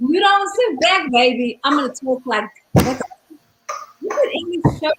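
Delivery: light Mrs Doubtfire British voice, half played; Mrs Doubtfire impression. Teasing her cohost about sitting back, lightly voiced Mrs Doubtfire British accent. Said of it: "Missus Doubtfire".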